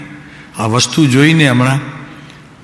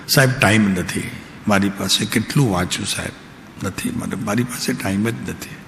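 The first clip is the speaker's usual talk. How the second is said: mock listener excuse; 4 semitones lower, 7 dB quieter than usual.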